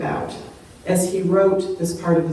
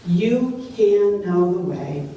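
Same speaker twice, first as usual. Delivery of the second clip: comforting. Retold or imitated. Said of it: "Jesus' answer is meant to comfort him".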